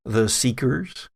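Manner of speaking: measured, slow scene-setting narration; game master scene narration. A narrator's reading. Game master describing the horseman rising from the grave. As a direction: set the eerie scene for the players.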